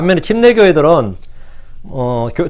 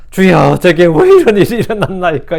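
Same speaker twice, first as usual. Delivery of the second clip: complaining prayer; 4 dB louder than usual. Retold or imitated. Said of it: "왜 불평하죠?".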